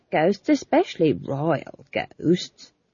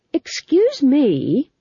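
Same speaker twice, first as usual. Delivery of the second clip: slow, loud and high; louder; 10 semitones higher, 6 dB louder, much slower than usual. A narrator's reading. Young witch demanding attention, louder. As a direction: cut in firmly. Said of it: "louder this time".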